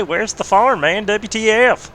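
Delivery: high, loud hick twang drawling out the punchline; country redneck voice. Acted. Teasing a friend over voice chat in a put-on redneck voice. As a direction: play the lost country boy who can't find his farm. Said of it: "that's my country corner redneck voice".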